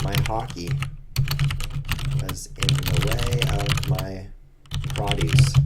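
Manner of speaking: light mock Canadian accent, slow on the middle; lightly hammed-up Canadian. Shown as a demonstration. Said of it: "I'll speak like a Canadian here".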